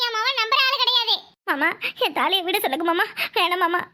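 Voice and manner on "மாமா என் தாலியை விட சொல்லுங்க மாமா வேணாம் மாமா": tearful pleading. Acted. Pleading husband, thali taken.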